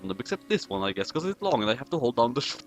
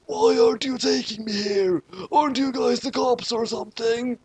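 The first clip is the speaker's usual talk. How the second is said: Kira; 9 semitones higher than usual. Acted. Kira voiced in story.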